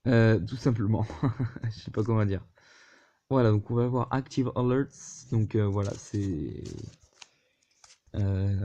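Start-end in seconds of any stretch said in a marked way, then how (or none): 4.1-5.3 English words in a French accent; self-deprecated French accent in English. Real, not acted. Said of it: "avec mon magnifique accent anglais".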